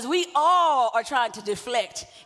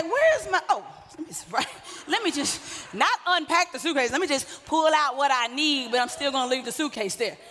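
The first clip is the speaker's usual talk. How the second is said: laughing mock rummaging. Mocking someone living from suitcase.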